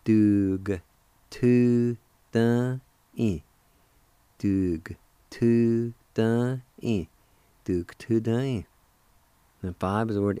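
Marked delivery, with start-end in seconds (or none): 0.0-7.1 Dug tu dun in, each syllable spoken louder and apart; emphatic syllable demo. Shown as a demonstration. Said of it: "You can pronounce the G with the D U like this". 7.6-8.7 Dug tu dun in, run together more quickly; syllable demo. Shown as a demonstration. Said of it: "like this".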